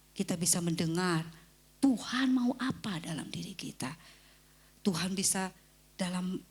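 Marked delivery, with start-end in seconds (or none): 1.8-3.9 whisper. Acted. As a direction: breathe it like a secret. Whispered about hearing God. (bisikan lembut)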